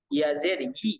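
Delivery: "ই" as a yi from mid-tongue. Shown as a demonstration. Teacher demonstrating ya with zer, "ই" from mid-tongue. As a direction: raise the middle of the tongue for "ই". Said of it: "জিহ্বার মধ্যখান থেকে".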